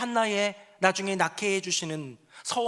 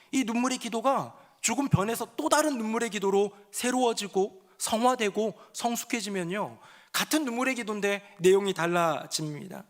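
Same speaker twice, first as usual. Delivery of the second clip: normal talking voice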